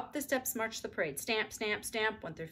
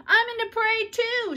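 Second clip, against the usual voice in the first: eager; 10 dB louder than usual. A narrator's reading. Susan joining.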